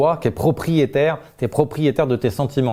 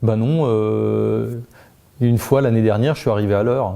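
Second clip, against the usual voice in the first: defensive retort. Shown as a demonstration. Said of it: "tu vas pouvoir me riposter".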